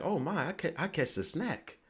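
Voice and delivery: high, slow mock girl gushing; impressed girl. A girl eyeing a well-dressed guy, mock gushing high and slow. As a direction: raise the pitch and drawl it out like a smitten girl. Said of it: "she's like".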